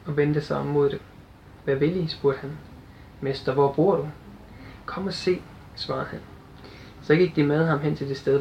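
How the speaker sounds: measured Bible reading with lightly voiced quotes; scripture reading. Preacher reads John chapter one to the church, measured and clear. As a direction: read the passage to the congregation.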